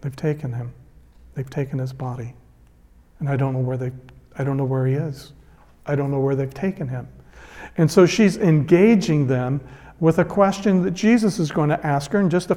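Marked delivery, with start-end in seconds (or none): 0.0-7.1 soft, hushed, grief-worn lament; grieving Mary. Retold or imitated. Preacher voicing Mary at the tomb, soft and grieving. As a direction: murmur it as if cried out and empty.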